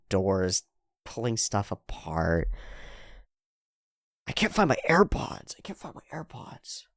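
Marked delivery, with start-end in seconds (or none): 4.3-6.8 mock tantrum. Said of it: "Throwing a tantrum".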